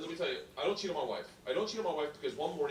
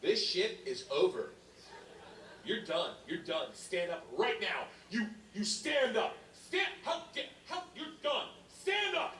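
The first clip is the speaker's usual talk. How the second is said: lightly voiced stern chaperone, slow then rising higher; a hint of an indignant teacher; liberal arts confidence; 5 semitones higher than usual. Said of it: "with that, like, liberal arts confidence".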